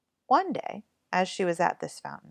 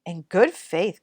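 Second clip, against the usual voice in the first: cried out; 6 dB louder, slower than usual. Acted. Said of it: "cried mater".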